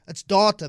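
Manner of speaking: DATA said as "dah-ta"; firm "dah-ta" for DATA; prescribed pronunciation. Shown as a demonstration. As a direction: insist on DATA with a long "ah". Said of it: "That's the only way to pronounce it".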